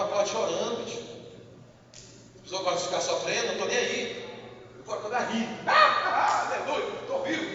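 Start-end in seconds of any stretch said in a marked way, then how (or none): 5.6-7.5 joyful waking. Acted.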